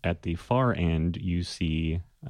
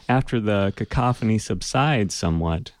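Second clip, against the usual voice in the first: normal talking voice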